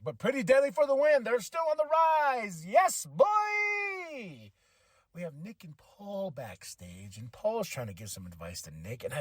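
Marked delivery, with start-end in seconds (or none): 0.2-4.5 excited shout. Real, not acted. Vlogger cheering Pretty Deadly's win, shouting. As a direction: cheer them on.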